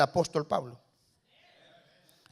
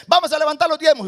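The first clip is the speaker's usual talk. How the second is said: higher, louder mock pastor's announcement; pastor pidiendo diezmos; 6 semitones higher, 7 dB louder, faster than usual. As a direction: call out like a pastor taking up tithes. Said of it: "Aquí el pastor dice". (imitando a un pastor que anuncia los diezmos)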